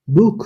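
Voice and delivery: বুক said high and loud with a kh ending; German ch as kh. Shown as a demonstration. Teacher demonstrating ch in Buch, loud. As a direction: end বুক with a throaty ch. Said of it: "খয়ের মতো".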